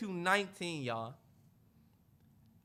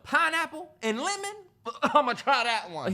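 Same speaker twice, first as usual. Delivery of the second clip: excited customer; 6 semitones higher than usual. Retold or imitated. Customers tasting juice flavors.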